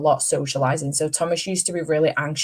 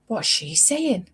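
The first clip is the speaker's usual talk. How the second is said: put-on toddler voice; 5 semitones higher, slower than usual. Imitating toddler son's question.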